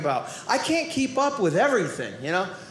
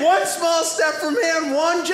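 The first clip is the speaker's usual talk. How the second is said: grand Armstrong delivery; 6 semitones higher than usual. Retold or imitated. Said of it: "But he did".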